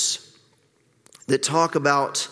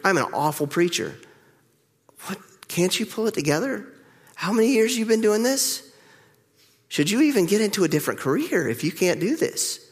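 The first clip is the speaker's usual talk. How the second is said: self-scolding inner voice; 5 semitones higher than usual. Retold or imitated. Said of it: "I go home that day and I think".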